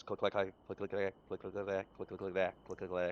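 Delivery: spoken clip-clop in uneven clusters; off-cadence hoofbeats. Acted. Game master shows why it sounds like two horses, off-cadence clicking. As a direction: rattle out clicks like too many hooves. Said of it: "the cadence is wrong".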